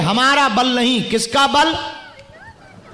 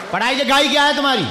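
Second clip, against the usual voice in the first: teasing question; 5 semitones higher, much faster than usual. Real, not acted.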